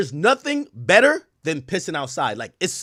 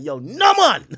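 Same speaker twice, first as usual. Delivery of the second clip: louder, higher mock Jamaican accent; Jamaican cussing; 6 semitones higher, 5 dB louder, slower than usual. Shown as a demonstration. Streamer showing viewers how Jamaicans cuss somebody out, Jamaican accent. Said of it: "When you cussing somebody out".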